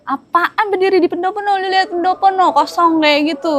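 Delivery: mock a senior who can't believe it; incredulous senior. Senior retorts in disbelief, retold.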